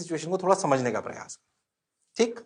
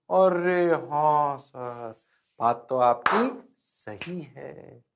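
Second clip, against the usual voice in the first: slow, drawn-out pupil voice; conceding student; 3 semitones lower, 4 dB quieter, much slower than usual. Acted. Student agreeing the teacher is right, slowly conceding. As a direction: drag it out like a student giving in.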